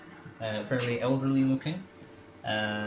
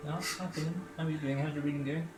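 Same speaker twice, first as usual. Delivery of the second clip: put-on lightly higher, cooing old lady; doting old lady; 5 semitones higher than usual. Ethel pinches Finn's cheek, lightly cooing higher. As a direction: coo at him like a doting aunt. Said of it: "pinches his cheek and says".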